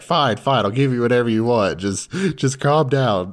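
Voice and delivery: high, exasperated giving-in; mock flustered surrender. Boy giving in to her fake crying, mock exasperation. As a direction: placate them in a lightly acted fluster.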